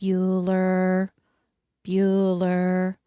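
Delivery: flat, droning roll call; bored teacher calling names; monotone teacher voice. Retold or imitated. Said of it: "that teacher in Ferris Bueller's Day Off that goes".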